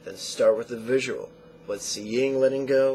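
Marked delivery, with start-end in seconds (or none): 1.7-2.9 the noting cues rattled off in a fast demo; quick run-through. Shown as a demonstration. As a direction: rush the cues as a quick sample. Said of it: "Obviously, you don't go that fast".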